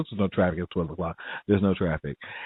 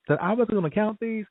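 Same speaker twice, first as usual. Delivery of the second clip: incredulous self-talk; 12 semitones higher than usual. Retold or imitated. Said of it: "this is what I'm saying to myself".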